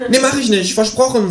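high kangaroo voice with a laugh in it. Acted. Kangaroo promising its flatmate, high and laughing. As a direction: promise with a grin.

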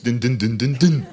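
imitated rhythmic fanfare noise; mock action-theme dun-dun; hummed theme sound. Comedian setting off for the trampolines, mock theme sound.

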